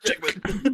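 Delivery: playful French take on "Jackman"; mock French pronunciation. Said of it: "The French probably pronounce it Jackman".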